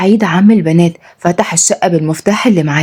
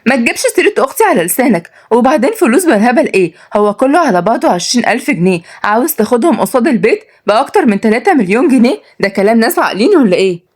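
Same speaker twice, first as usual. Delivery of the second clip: put-on higher, mildly outraged young woman; shocked; 5 semitones higher than usual. Niece disputes uncle's debt claim, shocked. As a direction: protest in shocked disbelief. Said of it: "ملك ردت بصدمة".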